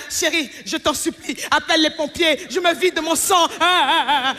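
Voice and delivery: hammed-up panicked man, laughing at the end; mock dying man. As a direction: play the whiny boyfriend bleeding out. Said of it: "Mais si c'était vous". (homme qui se plaint, joué en exagérant)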